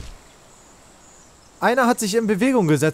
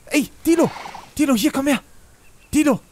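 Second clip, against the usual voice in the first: high, sing-song calling to a pet; coaxing call; 4 semitones higher than usual. Acted. Player coaxing a baby dinosaur to come closer, high sing-song. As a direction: lure the little dino over, coaxing.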